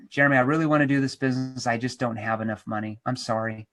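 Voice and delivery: low, soft, apologetic objection; reluctant, sorry excuse; apologetic prospect. Acted. Prospect voicing a money objection.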